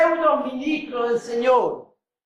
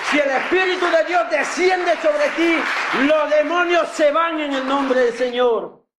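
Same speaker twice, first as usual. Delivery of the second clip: preaching climax; 3 semitones higher than usual. Real, not acted. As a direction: build it to a shout. Preacher's climax over music.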